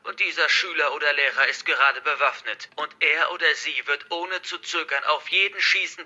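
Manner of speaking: lightly voiced hostage-taker, projected; forceful, threatening address to captives; menacing hacker villain. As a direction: declare it like a villain in control.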